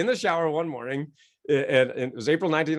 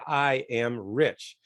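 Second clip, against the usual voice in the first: leader's slow affirmation; 4 semitones lower, much slower than usual. Shown as a demonstration. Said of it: "And everybody say".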